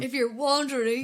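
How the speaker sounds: loud teasing echo with "wondering" as WAHN-dering; playful echo. Retold or imitated. Echoes the word, playing on wandering.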